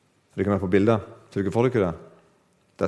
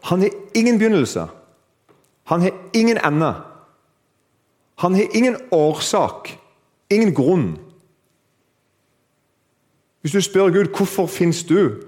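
high, declarative lines with pauses between; preacher hammering home each point; emphatic preaching; 9 semitones higher, 3 dB louder than usual. Real, not acted. Preaches at full force.

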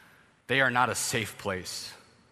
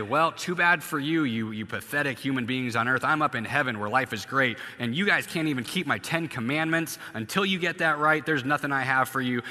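mock callous God. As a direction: sneer down from heaven at the humans. Preacher voicing a callous God.

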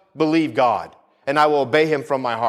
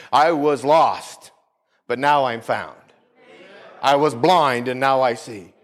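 slow testimony; 3 semitones lower, slower than usual. Acted. Quoting Amazing Grace slowly.

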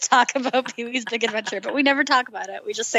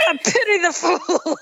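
Mister T impression; 5 semitones higher than usual. Quoting Mister T.

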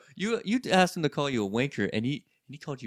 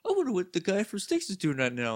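imitating older regular; 3 semitones higher than usual. Older customer eager to impress two kids, imitated. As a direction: play the customer scheming to seem cool. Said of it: "we were young kids to him, so he's like".

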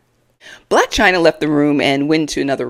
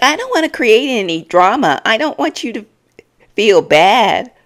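mock fake concern; 6 semitones higher, 4 dB louder than usual.

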